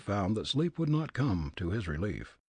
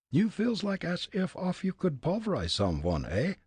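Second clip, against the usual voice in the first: put-on high, comic German-accented Fritz; thick immigrant German accent, pitched high; 9 semitones higher than usual. Fritz sizing up the old man, German accent.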